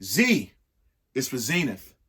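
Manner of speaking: rhythmic, lilting read-aloud of a rhyming book; reading to children. Acted. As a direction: read each verse to the kids with a bounce.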